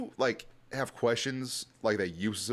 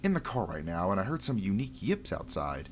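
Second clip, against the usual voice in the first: nerdy voice. Acted. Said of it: "So I gave him a really nerdy voice".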